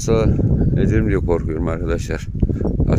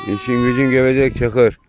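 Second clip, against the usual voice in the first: scolding the dog; 5 semitones higher, 4 dB louder than usual. Real, not acted.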